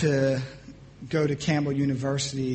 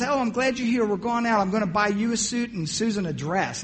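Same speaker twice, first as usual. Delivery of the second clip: excited mom; 6 semitones higher than usual. Retold or imitated. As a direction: lightly imitate an eager mother. Mom's excited greeting retold.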